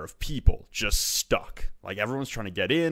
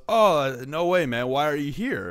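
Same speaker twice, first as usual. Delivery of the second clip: higher, lively stranger's surprise; raised-pitch friendly disbelief, imitated; mock surprise; 4 semitones higher than usual. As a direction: retell it as a pleasantly surprised stranger. Retold stranger hears he's Canadian.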